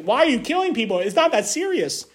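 mock-appalled questioning, voice lifted; righteous indignation. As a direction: mildly mimic an indignant objection. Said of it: "respond in righteous indignation, like".

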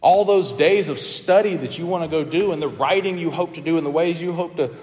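retold stern warning, firm and emphatic; measured, emphatic imitation of a threat; imprecatory warning. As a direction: lay down a curse as a preacher quoting it. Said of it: "confronted Calvin in an imprecatory way".

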